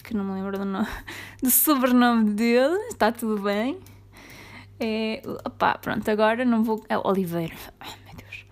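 ordinary talk

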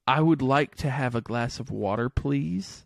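lightly imitated British model phrase; measured, polite request with a hint of British; British friend's example. Welsh friend giving a British phrase to copy, lightly British. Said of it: "the first one he said".

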